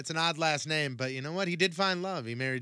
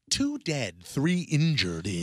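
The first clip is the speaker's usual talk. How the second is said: reporter impression; 2 semitones higher, 3 dB louder, much slower than usual. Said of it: "but she is this one".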